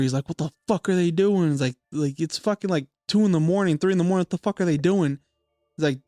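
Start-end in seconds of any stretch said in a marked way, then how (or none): 0.3-1.5 mildly angry dad, pitch lifted; retold angry dad. Dad seeing the second snowman, mildly angry. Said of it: "and he's angry". 2.2-5.2 raised pitch, mild mock anger; retold angry dad. Dad woken in the middle of the night, mildly angry. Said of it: "and he's angry".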